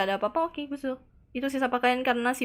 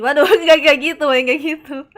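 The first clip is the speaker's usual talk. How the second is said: loud laughing denial; 4 semitones higher, 13 dB louder than usual. Real, not acted. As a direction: laugh through the words. Laughs at own joke. (tertawa keras)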